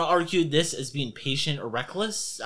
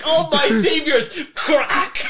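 high, loud hammed-up captive voice; mock grateful captives; 11 semitones higher, 7 dB louder, slower than usual. GM playing the rescued captives getting whipped, high hammed-up gratitude. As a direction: squeal it out like a grateful prisoner. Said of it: "They're like".

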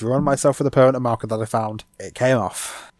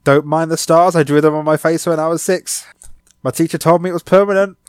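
higher, louder cheery interview voice; job interview voice; 5 semitones higher, 4 dB louder than usual. Pretend. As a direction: pretend to greet the interviewer. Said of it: "I'm like".

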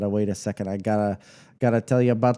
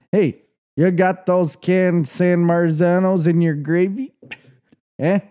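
put-on New York Italian accent; 5 semitones higher, 4 dB louder than usual. Asking after San Marzanos in the gravy, New York Italian accent. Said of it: "I'll be saying".

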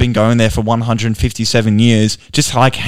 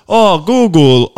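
talking to phone; 5 semitones higher, 3 dB louder, much slower than usual. Retold or imitated. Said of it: "he goes".

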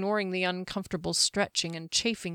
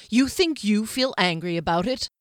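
stern, raised captain's rebuke; captain scolding a vengeful companion, louder and harsh; 4 dB louder than usual. Acted. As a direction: lay down the law to her firmly. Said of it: "Derry said harshly".

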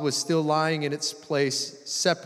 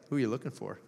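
soft, low, with a grin; grinning; 4 semitones lower, 8 dB quieter, much faster than usual. Acted. Jesus to crying Mary, grinning gently. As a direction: ask it teasingly softly, lower, through a grin. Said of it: "almost had a grin on his face".

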